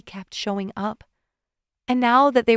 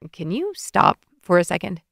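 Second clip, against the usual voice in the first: intense; 3 semitones lower than usual. Acted. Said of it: "Evan said intensely".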